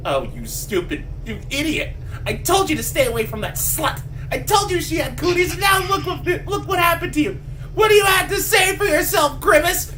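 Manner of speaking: hammed-up furious mother tearing into her son; mother yelling. Mother screaming at her mutated son, mock furious yell. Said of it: "she's all like".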